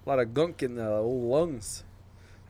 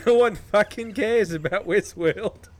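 put-on Australian accent; 5 semitones higher, 4 dB louder than usual. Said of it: "both of your Australian accents".

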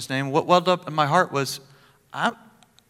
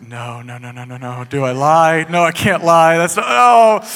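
inner plea; 6 dB louder than usual. Retold or imitated. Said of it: "the plead with the Lord".

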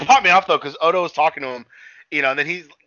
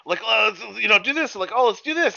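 higher, eager mock voice; a hint of a flirty woman, higher; imitating her; 10 semitones higher, 6 dB louder than usual. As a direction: push it along in a raised, coaxing put-on voice. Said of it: "and she keeps like".

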